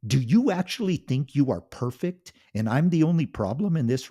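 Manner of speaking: loud, high furious yelling; a husband exploding at his cruel wife; angry shout. Acted. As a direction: finally fight back, full volume. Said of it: "He shouted".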